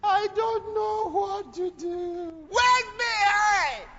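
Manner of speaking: high, slow loud call; preacher announces mothers should stay behind, high and loud. Retold or imitated. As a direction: summon the mothers back. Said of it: "When they say".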